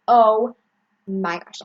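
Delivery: sudden loud oh; startled exclamation; surprised gasp. Real, not acted.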